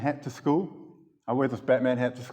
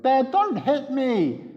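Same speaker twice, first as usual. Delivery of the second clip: put-on much higher, slow, loud child's plea; loud kid cry; 13 semitones higher, much slower than usual. Four-year-old shouting at his dad in the supermarket, loud. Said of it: "really loud in front of everyone".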